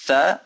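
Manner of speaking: THA cut short with a brief vowel. Shown as a demonstration. Teacher showing learners what it is not, short THA. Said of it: "which produces not tha".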